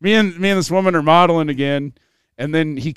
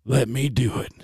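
eager Santa voice; 3 semitones lower than usual. Retold or imitated. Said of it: "he goes".

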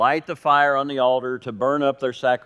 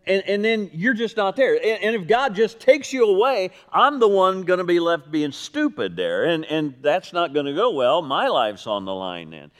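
worried objection; 4 semitones higher than usual. Retold or imitated. Messenger fears being left stranded before the king, acted worried. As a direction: voice rising in retold worry, then falling off.

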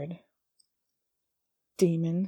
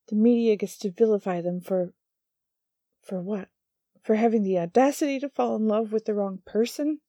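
loud, higher, outraged; furious accusation; 4 semitones higher, 6 dB louder than usual. Acted. Angel accusing the demon of the killings, loud outrage. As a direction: hurl the accusation at him.

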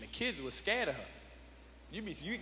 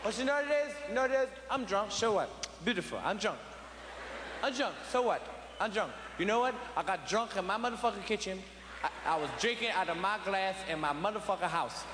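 put-on drunk father ranting; 4 semitones higher than usual. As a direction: rant like a drunk dad claiming his house. Drunk father claiming house.

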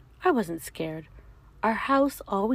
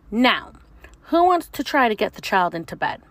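teacher monster; 3 semitones higher, 7 dB louder than usual. Acted. Teacher monster asks class.

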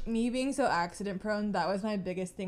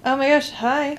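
excited greeting; 5 semitones higher, 11 dB louder than usual. Real, not acted. Excited greeting on reverb mic.

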